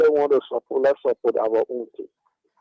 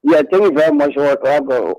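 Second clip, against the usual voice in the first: over the phone. Real, not acted. Caller speaking through phone line.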